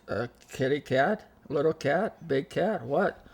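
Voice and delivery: imitating a doubtful neighbour; mock incredulity. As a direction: quiz them in retold disbelief. Acts out neighbour's disbelieving questions.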